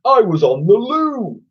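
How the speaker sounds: slime creature. A narrator's reading. Slime explaining why it was late. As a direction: say it without embarrassment. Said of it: "Slime excuses itself".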